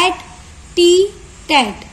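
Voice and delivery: at, t, tat as separate light syllables; lightly stressed syllables. Shown as a demonstration. Teacher showing example syllables, little stress on at, t, tat. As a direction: say at, t, tat apart, with little force. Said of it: "हम कम ही जोर लगा रहे हैं".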